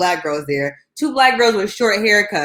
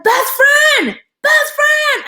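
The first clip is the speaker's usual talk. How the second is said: put-on high, loud little-boy shout; excited little boy; 6 dB louder, much slower than usual. Seven-year-old cousin calling her, high excited shout. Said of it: "He was like".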